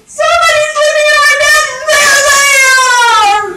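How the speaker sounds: piercing put-on baby scream; shrieking Baby Bear. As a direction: wail it like an alarmed bear cub. Baby Bear finds Goldilocks.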